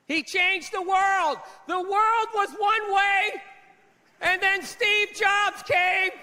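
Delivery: slow, sarcastic awe at He changed the world; mock grandiose. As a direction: drag out He changed the world in fake reverence. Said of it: "That was insane".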